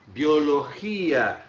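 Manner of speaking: Biologia slowly, with a long strong GI; slow demonstration of Biologia, I stressed. Shown as a demonstration. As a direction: stretch Biologia into bio-lo-GIII-a. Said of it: "A minha vogal mais forte é o I".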